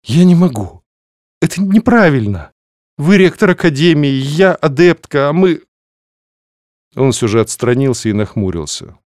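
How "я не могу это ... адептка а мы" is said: flustered heroine. Acted. Flustered heroine protests to rector.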